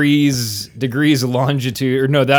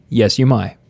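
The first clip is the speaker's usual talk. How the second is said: lightly Southern "may", vowel widened toward "my"; Southern-sounding accent. Acted. Host answering the guest's request to speak, Southern-sounding accent. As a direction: answer with a hint of a Southern twang. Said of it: "That just sounds like Southern accent".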